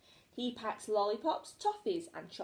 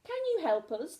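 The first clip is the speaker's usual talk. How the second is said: begging in despair; 7 semitones higher, 4 dB louder than usual. A narrator's reading. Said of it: "the Martians begged George in despair".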